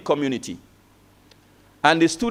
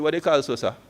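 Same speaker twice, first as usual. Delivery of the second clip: softer, puzzled question in Kitishan twang; 3 semitones lower, 6 dB quieter, faster than usual. Retold or imitated. Student asking his lecturer about messenger, in Kitishan twang. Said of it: "in his local Kitishan twang".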